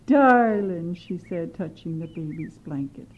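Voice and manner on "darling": put-on high, slow, cooing old-lady voice; fawning granny. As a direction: gush over the baby falsely. Witch fawning over baby.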